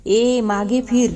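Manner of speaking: slow, stern call to turn back; a mother calling a girl back, drawn out; mother-in-law calls the sulking girl back, firm. A narrator's reading. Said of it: "Jijabai ओरडल्या".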